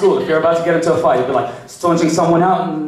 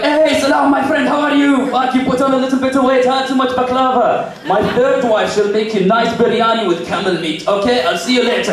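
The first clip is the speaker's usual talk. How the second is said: high-pitched Arab friend's nonstop greeting; effusive Arab accent; 8 semitones higher than usual. Acted. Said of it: "Arab guy, not so much".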